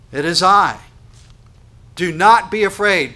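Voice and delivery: loud, forceful command; emphatic command. Acted. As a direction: order them not to fear, full force. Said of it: "that's an emphatic imperative".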